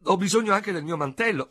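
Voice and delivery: loud, high exclaim; high cry. A narrator's reading. Léonie announcing she'll go look, a loud high cry. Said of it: "gridò".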